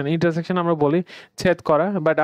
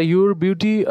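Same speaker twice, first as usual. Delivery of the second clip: slow demo; much slower than usual. Shown as a demonstration. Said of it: "যেমন কি আপনি এখানে your beauty".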